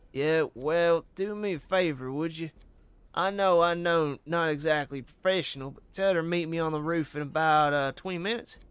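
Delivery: Southern detective asking a favor; lively, coaxing Southern accent. Acted. Officer sending a message to his sweetheart, Southern accent. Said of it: "Southern accent".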